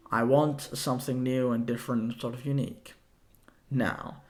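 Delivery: breathless, winded talk; out of breath after talking. Real, not acted. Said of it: "I'm kind of out of breath".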